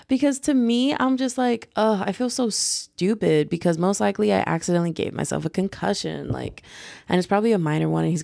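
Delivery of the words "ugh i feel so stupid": embarrassed groan. Retold or imitated. Embarrassed about concussion.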